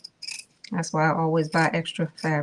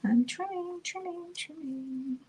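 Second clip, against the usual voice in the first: holding breath; 11 semitones higher, 8 dB quieter than usual. Real, not acted. Trimming seam allowance carefully.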